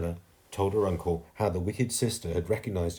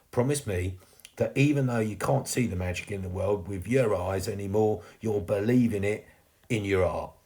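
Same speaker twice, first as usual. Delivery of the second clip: earnest request, lightly in character; gently insist, as the sweep; lightly voiced sweep ghost. Fading ghost asks girl to believe, earnestly.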